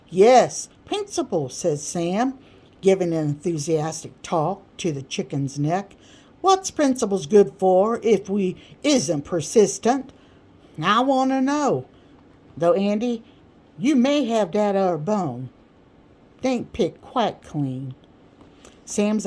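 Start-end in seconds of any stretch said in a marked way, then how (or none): 0.1-1.5 loud, much higher proclamation; triumphant Sam. Acted. Sam's triumphant exclamation. 6.4-17.9 higher, louder rhetorical question; preaching Sam. Acted. Sam preaching over a chicken bone.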